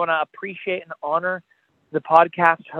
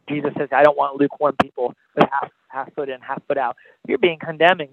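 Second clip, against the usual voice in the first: rising and falling sermon delivery, pressing the listener; altar-call sermon voice; impassioned preaching. Acted. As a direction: preach it straight to the listener's heart.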